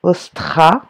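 "Ostra" drawn out as os, then stra; syllable by syllable. Shown as a demonstration. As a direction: dictate "Ostra" loudly in separate syllables. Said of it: "première syllabe".

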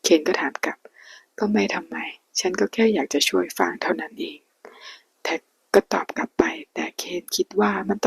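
hushed storyteller reading a Thai romance aloud; whispered story reading. A narrator's reading. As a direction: read the novel in a hushed whisper.

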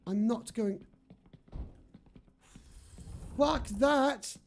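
shaky voice from adrenaline; trembling. Real, not acted. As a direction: speak while still shaking. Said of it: "I'm actually trembling".

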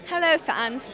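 a light, playful put-on British accent. Singer greeting her fans in a mock British accent. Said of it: "in your best British accent".

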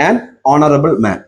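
an honorable man said very slowly, each sound laid out; slow model reading. Shown as a demonstration. Teacher reads the example slowly for students, very slow. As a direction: read it slowly for the class to copy. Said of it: "അടുത്തൊരു example ഇവിടെ നോക്കിയേ".

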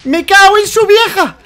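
loud frustrated curse; angry shout. Real, not acted. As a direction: swear out loud in fury. Swearing after falling.

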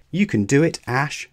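high, loud cheer; encouraging call. A narrator's reading. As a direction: call out support from the sidelines. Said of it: "Mallow called from the sidelines".

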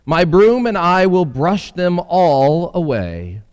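lightly voiced eager housefly; a hint of a busy little fly. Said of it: "said the housefly".

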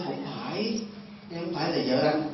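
soft imitation of a possessed wife; ghostly possessed wife. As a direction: deny it quietly, lightly ghostlike. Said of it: "không phải cái kiểu mà nói bình thường".

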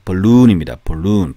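"balloon" with a long, stressed "oo"; long stressed vowel. Shown as a demonstration. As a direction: stretch and stress the second syllable of "balloon". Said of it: "강세도 있다는 얘기예요".

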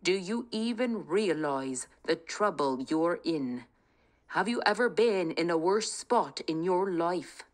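a touch of fierce anger from the king; mildly fierce king scolding the thief. Acted. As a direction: lean in, menacing. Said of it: "his voice grew fierce".

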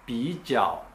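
ピーチャオ with チャオ in a dipping third tone; ピーチャオ Beijing style, チャオ dipping instead of falling. Shown as a demonstration. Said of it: "北京の人たちはここで".

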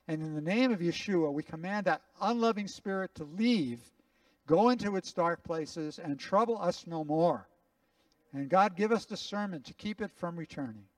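firm prayer of command; a pastor casting out an unloving spirit. Acted. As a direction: order the spirit out with authority.

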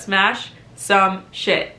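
slow, separated words, ending in a laugh; deliberately slowed down, amused at tripping over it; careful articulation. Shown as a demonstration. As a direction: pick through a tongue-twister word by word. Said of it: "It's so hard to say that".

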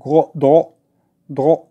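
French o in "درو", mouth slightly rounded. Shown as a demonstration. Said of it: "دائري شويه".

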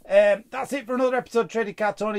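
upbeat YouTube goodbye; outro sign-off. Acted. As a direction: rattle through the outro with energy.

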